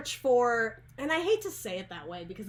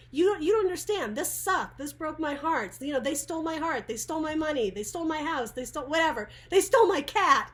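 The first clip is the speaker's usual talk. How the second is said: higher, building indignant complaint, hammed up; mock heartbroken rant; 4 semitones higher than usual. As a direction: play the wronged client whining, rising to a near shout. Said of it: "because it's like".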